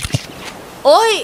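drawn-out pretend cry of pain; fake ouch. Man faking a fall to trap her, pretend ouch. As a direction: fake a hurt yelp. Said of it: "แกล้งสะดุดล้ม".

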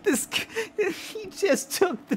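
high, slow startled cry. Real, not acted. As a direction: react with alarm.

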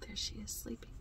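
very soft, near whisper; hushed. Real, not acted. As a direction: say it softly, she's asleep. Hushed aside, Grandmother asleep.

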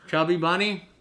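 talking round a mouthful of marshmallows; cheeks stuffed full. Real, not acted. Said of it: "shove them in your mouth and have to say chubby bunny".

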